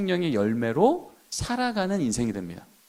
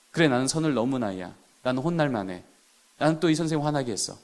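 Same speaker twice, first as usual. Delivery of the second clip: put-on guilty child; 5 semitones lower, 5 dB quieter than usual. 죄책감에 눌린 아이의 속마음.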